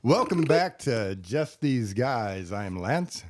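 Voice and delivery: slow, smooth lounge-singer host voice; lizard man. Acted. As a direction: croon the welcome like a lounge lizard. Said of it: "the lounge suit lizard voice again".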